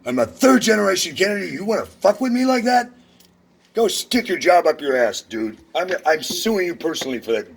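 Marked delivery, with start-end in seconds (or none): 0.1-5.6 high, loud real rage; angry yelling. Real, not acted. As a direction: yell it right in their face. Shouting threats at the clerk.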